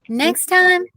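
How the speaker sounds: incredulous. Acted. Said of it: "Repeated Vanessa".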